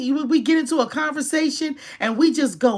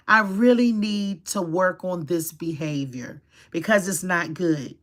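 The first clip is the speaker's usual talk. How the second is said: grown-up admission; 4 semitones lower than usual. Shown as a demonstration. An adult admitting a bad trait, sincere and calm. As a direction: own the fault calmly and honestly. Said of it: "Be a grown adult and be like".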